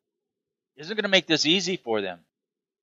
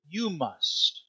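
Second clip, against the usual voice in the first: softer insistence; 2 semitones higher, 7 dB quieter than usual. Shown as a demonstration. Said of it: "It's that essential".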